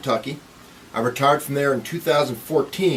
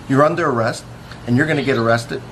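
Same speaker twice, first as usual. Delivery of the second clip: firm arrest command; 3 semitones higher, faster than usual. Retold or imitated. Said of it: "I gently tell him".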